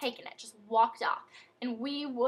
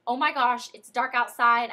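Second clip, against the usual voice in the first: retold panic; 7 dB louder than usual. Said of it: "she started thinking".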